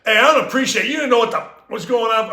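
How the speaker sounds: mock scolding. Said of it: "Here comes this little cop".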